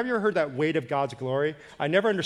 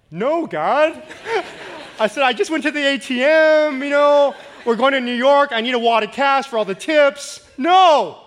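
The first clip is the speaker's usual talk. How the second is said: higher, louder mock protest; protesting loudly; 10 semitones higher, 9 dB louder than usual. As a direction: push back on God, half joking. Arguing with God over wallet.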